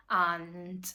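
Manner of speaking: talking out of breath while walking; breathless, puffing between words. Real, not acted. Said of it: "I'm fucking out of breath again".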